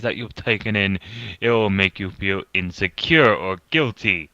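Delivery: put-on pompous British accent, reading aloud. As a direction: read it like a pompous British narrator. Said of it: "read it in a pompous British voice".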